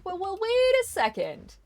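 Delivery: high, slow, loud disbelief; what planet are you on, aghast; incredulous outburst. Retold or imitated. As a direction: stretch it out in mock outrage. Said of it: "And it's like".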